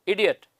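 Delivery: इडियट as a lone model word, opening on short ई sound, falling; teacher modelling the short first vowel in इडियट; short initial vowel. Shown as a demonstration. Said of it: "short vowel".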